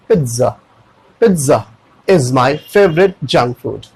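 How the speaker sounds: Pizza as "pit-za", slow example sentence; t sound in pizza. Shown as a demonstration. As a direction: model Pizza with t before z. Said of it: "एक टी का sound आ जाएगा". (धीरे से, Pizza को पिट-ज़ा बोलकर)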